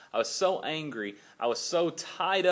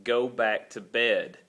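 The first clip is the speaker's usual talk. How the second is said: slow, measured parental order; mildly stern, spaced-out command; stern dad; 3 semitones lower, 3 dB louder, slower than usual. Retold or imitated. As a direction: lay it down slowly to a child. Tired dad ordering son to bed.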